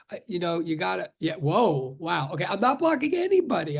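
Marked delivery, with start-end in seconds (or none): 2.5-3.8 mock-insistent sarcasm; sarcastic. Real, not acted. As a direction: protest it with obvious sarcasm. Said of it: "I'm just being sarcastic".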